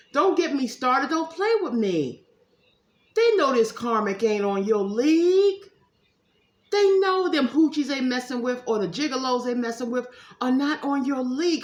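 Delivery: loud, emphatic hype; big up the couple loudly; hyped-up rant. Real, not acted.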